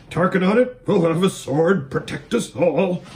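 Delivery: out of breath while galloping; panting. Acted. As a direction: gasp the words between breaths. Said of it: "panted Bree".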